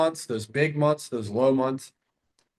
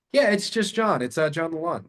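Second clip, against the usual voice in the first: easy, casual, higher start; familiar tone; 4 semitones higher than usual. Shown as a demonstration. Caller John introducing himself to seller, familiar. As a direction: talk like an old friend. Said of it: "Now I'm using a familiar tone".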